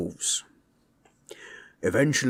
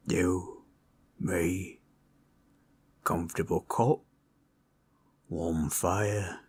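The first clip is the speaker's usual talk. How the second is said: gentle invitation; 4 dB quieter, slower than usual. Acted. Gently inviting listener to cuddle.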